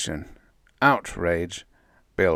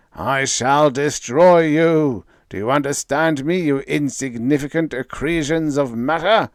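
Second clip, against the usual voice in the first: menacing cosmic voice; 6 semitones higher, 7 dB louder than usual. A narrator's reading. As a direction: pronounce doom on tiny creatures. Voice threatens.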